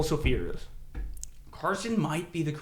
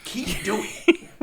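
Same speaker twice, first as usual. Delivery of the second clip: put-on unfazed kid voice; 7 semitones higher than usual. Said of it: "He was like".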